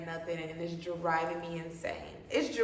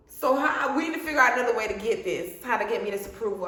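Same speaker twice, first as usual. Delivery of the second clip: fired-up resolve; 3 semitones higher, 3 dB louder than usual. Retold or imitated. Fired up to call back.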